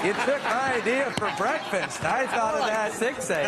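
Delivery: hurt mock grievance, slowed down; Norm's voice, aggrieved. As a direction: whine it like a wronged friend. Norm voiced, upset about breakfast.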